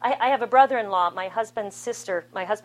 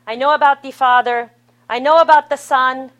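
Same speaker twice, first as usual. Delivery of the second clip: put-on French accent; 3 semitones higher, 12 dB louder than usual. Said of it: "he says in his French accent".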